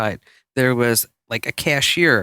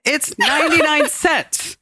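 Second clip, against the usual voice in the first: weary cashier answer; 10 semitones higher, slower than usual. Retold or imitated. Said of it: "she says".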